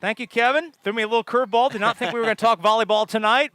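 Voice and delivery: laughing. Real, not acted. Announcer laughs, surprised.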